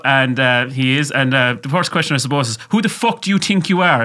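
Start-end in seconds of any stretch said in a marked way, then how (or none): 2.7-4.0 cheeky mock challenge, higher; mock aggressive. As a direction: throw it out like a playful jab. Mock-aggressive quoted question.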